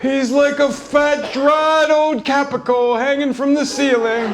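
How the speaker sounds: high, put-on mom voice; hammed-up mom zinging dad; mom's one-liners. Mom mocking dad to the waitresses, in a high put-on voice. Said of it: "spouting off one-liners".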